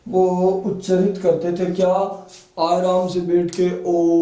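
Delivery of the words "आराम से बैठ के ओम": slow om with a long o; ओम stretched, long o and short m; long drawn om. Shown as a demonstration. Teacher stretching ओम for students, long o sound. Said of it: "ओ की ध्वनि ज्यादा आती थी".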